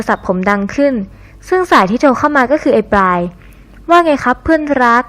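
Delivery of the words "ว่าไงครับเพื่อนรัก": slow, drawn-out mock sweetness, a touch higher; sarcastic greeting dragged out slowly. Answering his friend's call, slow sarcastic sweetness. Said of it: "ผมรับสายเชิงทำเสียงประชด".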